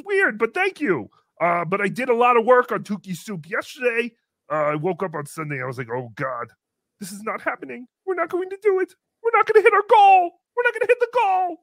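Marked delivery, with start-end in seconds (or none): 5.9-11.6 retold freak-out, climbing in pitch and gathering speed; mock rising panic. Host retells Sunday dread over the goal, mock panic.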